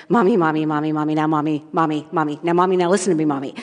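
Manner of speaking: rapid-fire repeated mock pleading; imitated childhood begging. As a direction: plead like a kid stalling Mom. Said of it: "I would beg her".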